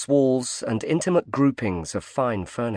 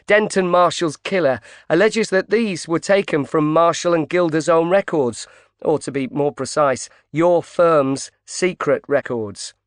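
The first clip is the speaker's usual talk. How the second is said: higher, louder, pushy reporter; female reporter voice; 6 semitones higher, 3 dB louder than usual. A narrator's reading. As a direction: press him hard as a reporter. Pope voiced as a woman.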